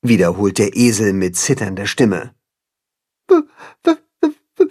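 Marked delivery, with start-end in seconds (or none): 3.3-4.7 high, timid stutter; stuttering bashful calf voice; shy calf stammering. A narrator's reading. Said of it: "fragt das schüchterne Kälbchen".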